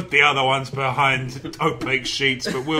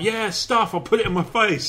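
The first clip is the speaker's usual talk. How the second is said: careless voice; 8 semitones higher, 5 dB louder than usual. Retold or imitated. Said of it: "so they're just like".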